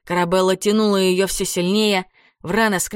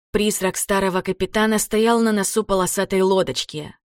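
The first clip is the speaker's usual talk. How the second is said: plain reading voice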